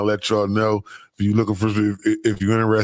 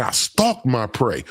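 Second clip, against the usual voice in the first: mock woman voice; slower than usual. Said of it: "listen how women talk".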